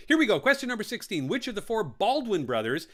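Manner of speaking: high, loud host announcement; excited announcement. Real, not acted. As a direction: kick off the next round with a bang. Host launching next question.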